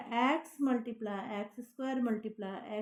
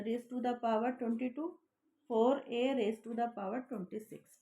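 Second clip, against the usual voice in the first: slow dictation; much slower than usual. Shown as a demonstration. Teacher reads exponents aloud.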